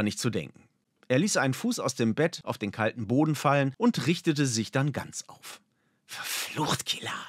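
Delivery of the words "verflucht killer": whispered, softer grumble; muttered curse. A narrator's reading. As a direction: curse under your breath. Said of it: "schimpfte er leise vor sich hin".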